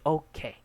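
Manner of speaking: "okay" falling to a close; down intonation. Shown as a demonstration. Teacher modelling the answer, "okay" with falling tune. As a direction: let "okay" step downward like a statement. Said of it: "It's a down intonation".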